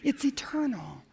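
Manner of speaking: slow soft whisper; whispered emphasis. Real, not acted. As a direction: breathe it out slowly. Hushed sermon point.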